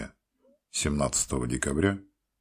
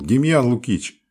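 loud, higher call across the hospital; yelling out; 10 semitones higher, 10 dB louder than usual. A narrator's reading. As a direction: yell his name down the corridor. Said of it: "завопил".

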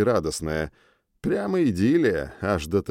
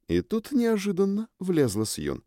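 ordinary delivery

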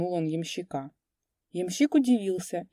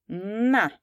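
gleeful angry shout; 4 semitones higher than usual. A narrator's reading. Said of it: "весело и злобно крикнул он".

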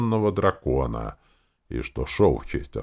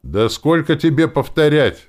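high, loud protest; indignant outburst at full pitch; exasperated exclamation; 12 semitones higher, 10 dB louder than usual. A narrator's reading. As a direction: cry out in exasperation. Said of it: "воскликнул Перч Зяба".

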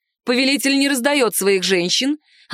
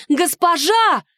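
shrill, much higher cry of alarm; scream; 8 semitones higher, 3 dB louder, much slower than usual. A narrator's reading. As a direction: scream her name in panic. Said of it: "не своим голосом закричала девушка". (испуганный крик служанки, гораздо выше)

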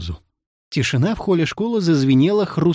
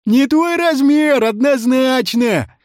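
high, slow taunt; drawn-out gleeful dig; snide jeer; 11 semitones higher, 4 dB louder, slower than usual. A narrator's reading. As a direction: rub it in mockingly. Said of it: "не удержался от ехидства Емеля Пугачёв".

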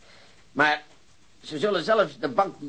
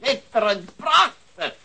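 gleeful laugh; 9 semitones higher, 4 dB louder, slower than usual. Acted. Detective gloats over criminal's plan.

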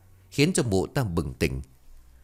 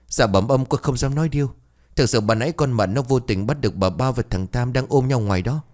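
frightened; 3 semitones higher than usual. Acted. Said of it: "sợ hãi quỳ súm".

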